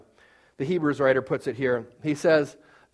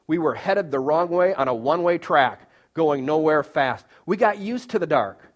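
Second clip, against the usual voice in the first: reciting lyrics. Shown as a demonstration. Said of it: "It goes".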